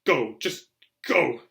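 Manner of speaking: breathless, loud order; winded and sharp; wheezing. A narrator's reading. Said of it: "he wheezed".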